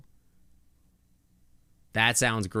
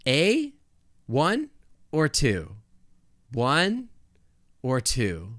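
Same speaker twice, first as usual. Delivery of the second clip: mock optometrist asking one or two; lightly voiced eye-exam doctor; 3 semitones higher, much slower than usual. Shown as a demonstration. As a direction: play the eye doctor, rising on the options. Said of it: "This is like an eye exam".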